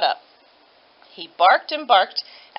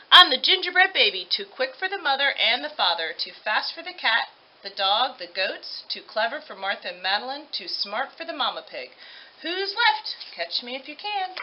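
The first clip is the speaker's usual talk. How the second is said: put-on smug gingerbread baby boast; 3 semitones higher than usual. Gingerbread baby bragging to the mama pig and all, smug. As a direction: crow about every escape, then dare them.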